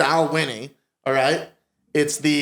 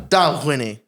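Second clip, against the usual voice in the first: Scottish accent. Shown as a demonstration. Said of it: "You gotta go full on Scottish".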